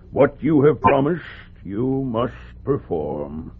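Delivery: stern fatherly reminder; firm admonishment. Acted. Father repeats the rule firmly.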